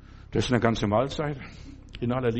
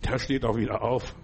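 calm reassurance; 5 semitones lower, 4 dB quieter than usual. Retold or imitated. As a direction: quietly wave off the worry. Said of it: "Hab ich gesagt".

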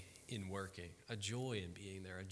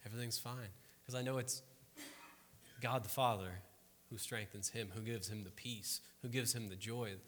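calm Jesus; 3 dB quieter than usual. Retold or imitated. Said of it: "Jesus was just like".

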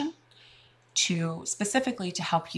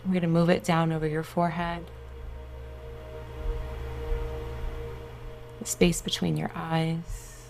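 guided meditation. Acted. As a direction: soothe them into relaxation.

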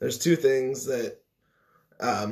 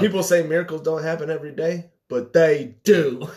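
Forrest impression; 4 semitones higher, 5 dB louder than usual. Quoting Forrest line.

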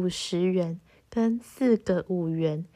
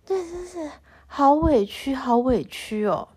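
aggrieved; 5 semitones higher than usual. Real, not acted.

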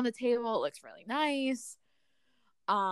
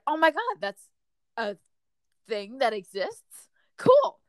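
excited; 4 semitones higher, 5 dB louder than usual. Retold or imitated. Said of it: "And I'd be like".

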